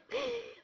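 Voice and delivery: high mock gasp for breath; exhausted gasp. Left alone after the run, hammed-up exhausted gasp. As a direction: act out collapsing out of breath.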